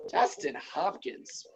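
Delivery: slow, breathy whisper after a sigh; whispering the name in disbelief; stunned whisper. Real, not acted. Disbelief at kicker ranking.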